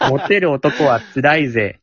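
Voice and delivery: slow, hammed-up cool line; mock ladies' man. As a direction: play at being the suffering heartthrob. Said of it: "じゃないのよ". (モテ男気取り)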